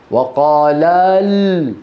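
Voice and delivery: drawn-out start of the verse; slow recitation. Shown as a demonstration. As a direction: begin the recitation slowly. (تلاوة بطيئة)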